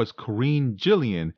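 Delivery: "Karen Gillan" as kuh-REEN JILL-ee-en; corrected name pronunciation. Retold or imitated. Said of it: "it's not pronounced Karen".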